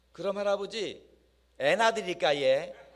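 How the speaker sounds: loud Gyeongsang regional dialect. Retelling a young woman's question to an old man, in Gyeongsang dialect. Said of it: "경상도 사투리 버전으로".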